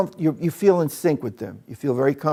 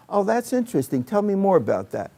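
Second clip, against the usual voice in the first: interested listener; 5 semitones higher than usual. Shown as a demonstration.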